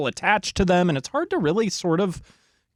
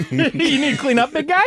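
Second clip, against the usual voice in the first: teasing laugh; 9 semitones higher than usual. Real, not acted. Teasing a coughing friend.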